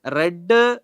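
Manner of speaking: "റെഡ്" with a short e; read said as "red". Shown as a demonstration. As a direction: pronounce "റെഡ്" like the colour red. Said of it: "റെഡ് എന്നാണ് വായിക്കേണ്ടത്". ("റെഡ്" എന്ന് ഹ്രസ്വമായ എ ശബ്ദത്തിൽ)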